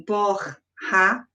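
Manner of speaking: "borracha" slowly broken as bor... ra... cha; split into syllables. Shown as a demonstration. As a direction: pause between each syllable of "borracha". Teacher demonstrates syllable separation.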